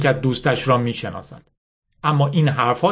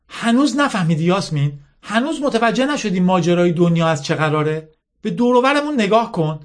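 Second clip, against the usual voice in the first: higher-pitched challenging questions, lightly acted; scornful General Mala; 6 semitones higher than usual. Mala taunting little Yasmin about her mission, lightly voiced scorn. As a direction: press her with mocking questions.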